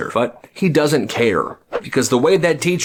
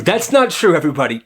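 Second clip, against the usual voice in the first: bright denial to guests; 3 semitones higher, faster than usual. Acted. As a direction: announce it cheerfully to the whole table. Mom addressing dinner guests.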